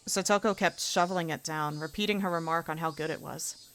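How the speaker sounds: ordinary talk, nothing marked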